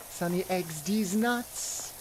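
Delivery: slow, spaced-out joke name; slow, deliberate introduction; deliberate name delivery. Shown as a demonstration. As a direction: draw out each word of the silly name. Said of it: "you have to say it like that".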